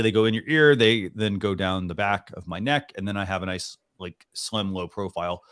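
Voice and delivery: normal talking voice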